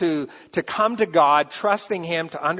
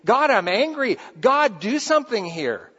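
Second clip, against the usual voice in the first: crying out to God; 4 semitones higher than usual. Retold or imitated. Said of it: "how David cries out to God".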